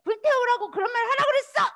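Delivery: fast, high, loud scolding; imagined Jesus scolding. Acted. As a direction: tell him off sharply. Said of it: "하고 막 혼낼 것 같았는데".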